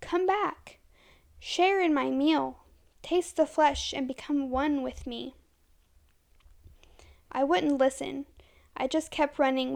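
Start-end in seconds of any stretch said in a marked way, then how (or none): 0.0-5.3 yelling. Acted. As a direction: call out, drawn out and hungry. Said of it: "the voice of Ben yelling".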